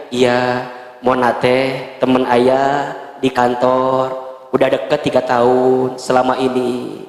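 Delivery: low, slow confession; husband explaining Mona to his wife; lightly voiced husband. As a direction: drop low and confess slowly.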